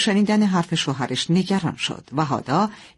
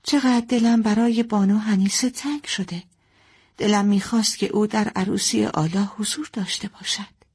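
higher, longing talk to herself; wistful musing; 5 semitones higher than usual. Acted. Mother missing her mother-in-law, wistful musing to herself. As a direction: muse with a touch of longing. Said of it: "با خودش گفت".

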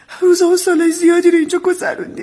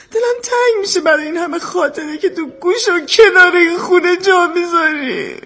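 wistful, holding back crying; choked-up nostalgia; tearful; 3 semitones higher than usual. Acted. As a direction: drag out the last words through rising tears.

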